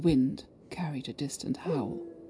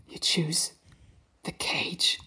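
half growl, half broken; 4 dB quieter, slower than usual. A narrator's reading. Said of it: "half growl, half broken man".

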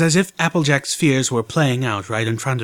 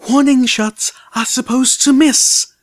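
sharp, higher and louder scolding; stern bark; 13 semitones higher, 6 dB louder than usual. A narrator's reading. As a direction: snap at him like a stern nurse. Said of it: "Velvet Remedy barked sternly".

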